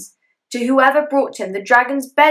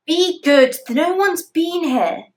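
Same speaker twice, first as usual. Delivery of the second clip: soothing dragon mother; 8 semitones higher, 3 dB louder, slower than usual. Acted.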